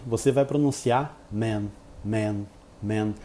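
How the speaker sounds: man said short with the mouth barely open; relaxed vowel man. Shown as a demonstration. Teacher contrasting the relaxed vowel in man. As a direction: keep man relaxed and closed. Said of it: "não tô abrindo tanto a boca".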